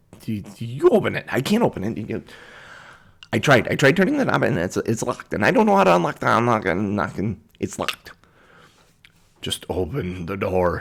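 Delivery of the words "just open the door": deep, low, slow voice as if from inside armor. Narrating a scene, voicing a figure in metal armor in a lower voice. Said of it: "You hear a lower voice from that metal armor".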